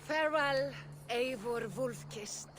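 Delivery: high, loud send-off; called-out farewell. Acted. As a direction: call it out to a departing friend, drawing out the name. Calling farewell to departing friend.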